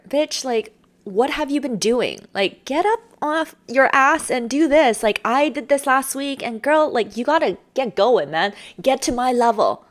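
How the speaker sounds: high, loud, playful push; sharp. Acted. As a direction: rib a friend hard to get moving.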